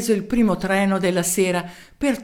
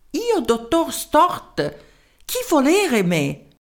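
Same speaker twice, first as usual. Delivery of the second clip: put-on high, slow little voice with a German accent; a tiny German professor in broken Italian; small German-accented voice; 7 semitones higher, slower than usual. Professor answering the mayor's call, small German-accented voice. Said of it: "Una vocina dal tipico accento tedesco".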